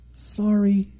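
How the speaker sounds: gentle singsong apology; mock sweet apology. Acts out apology to angry driver.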